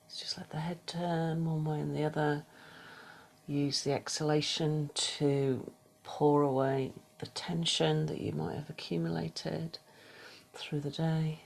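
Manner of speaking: soft, unhurried meditation guidance with whispered cues; guided meditation. Acted. Yoga teacher guiding the class through a body scan, soft meditation voice. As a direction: ease the class into stillness, gently.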